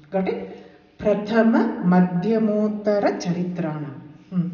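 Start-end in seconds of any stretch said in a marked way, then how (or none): 1.0-4.0 "Madhyamottara" as one word, long o; joined by sandhi. Shown as a demonstration. Teacher repeats the sandhi reading, "Madhyamottara" joined with o. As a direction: join Madhyama and Uttara into "Madhyamottara". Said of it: "has to be read as".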